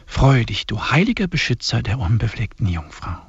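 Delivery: solemn, measured liturgical reading; hymn recitation. Acted. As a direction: intone each line like a prayer. Reads the hymn aloud.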